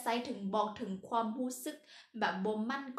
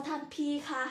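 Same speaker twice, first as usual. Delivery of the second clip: lightly acted, higher-pitched polite call; mock deferential address; 4 semitones higher than usual. Teacher imitating a woman addressing her older man, mock deferential. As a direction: playfully address an older partner. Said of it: "เขาต้องว่า".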